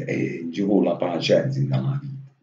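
quoting grandpa in Italian dialect; lightly imitated dialect saying. Retelling grandpa's advice on patience, in Italian dialect. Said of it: "E dice in dialetto".

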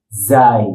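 যাই with buzzing z and gliding vowel; pronunciation demo. Shown as a demonstration. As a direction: spell out the sound যাই for a pupil. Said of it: "উচ্চারণ শেখার জন্য".

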